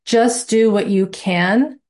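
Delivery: a touch of Italian mobster; playfully hint at a mafia boss; understated mock mob boss reassurance. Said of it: "I put my Italian mob boss voice on".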